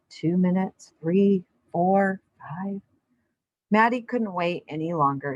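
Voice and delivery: calm read-aloud storybook voice; story narration. A narrator's reading. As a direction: read it to a class of kids, unhurried. Reads picture book aloud.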